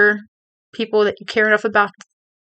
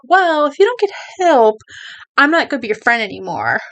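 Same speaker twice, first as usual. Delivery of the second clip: harsh ultimatum; 3 semitones higher than usual. Retold or imitated. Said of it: "It sounds really bad when you're like".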